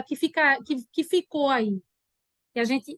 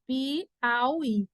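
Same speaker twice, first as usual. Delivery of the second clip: syllable by syllable; 3 dB quieter than usual. Shown as a demonstration. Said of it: "Eu me lembrei da palavra Piauí".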